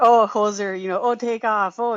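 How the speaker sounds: lightly imitated Canadian brothers accent; a touch of mock-Canadian hoser talk; Bob and Doug McKenzie. Caller imitating two Canadian brothers, light Canadian accent. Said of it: "And they're just like".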